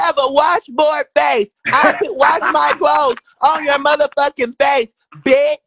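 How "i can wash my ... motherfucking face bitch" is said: angry shout. Real, not acted. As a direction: hurl the insult. Heated insult-filled argument.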